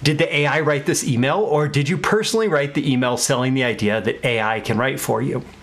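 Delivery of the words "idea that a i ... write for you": ordinary talk, nothing marked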